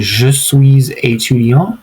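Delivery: Je suis étudiant said slowly, with the S of suis linked to étudiant; slow French demo. Shown as a demonstration. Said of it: "So that's why it's just a".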